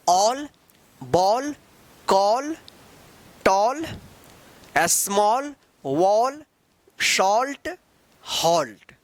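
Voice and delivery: all ball call read one by one with a rounded aw vowel; each word slow and distinct, aw not aa; aw word list. Shown as a demonstration. Teacher modelling the aw sound for the class, each word set apart. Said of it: "जैसे यहाँ पे देख लीजिए".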